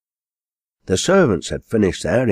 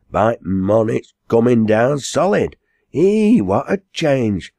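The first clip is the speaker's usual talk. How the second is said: high, animated dialect exclaiming; excited Giles-style rustic, pitch leaping up; amazed country servant; 6 semitones higher, 4 dB louder than usual. Acted. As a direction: marvel loudly at the weather.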